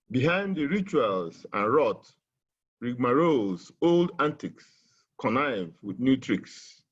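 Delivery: declaimed poem lines; poem reading. Shown as a demonstration. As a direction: recite with a rising sense of outrage. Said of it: "which I would like to read".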